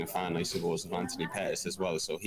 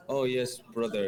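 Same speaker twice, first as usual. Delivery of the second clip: put-on German accent; 5 semitones higher, 3 dB louder than usual. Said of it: "talking away like this in his German accent there".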